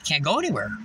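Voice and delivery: low, soft muttered resignation; retold dismay. Woman honked at, looking in the mirror, quietly dismayed. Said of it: "And the chick's like".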